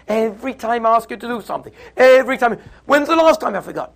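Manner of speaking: high, heated quarrelling. Acted. Spouses argue over who forgets, acted escalating yelling. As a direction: build to an accusing yell. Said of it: "it's getting louder and louder".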